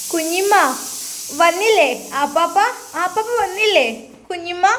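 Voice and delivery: put-on high, eager child's voice; a small girl asking for her uncle; little girl. Little girl Ami runs in.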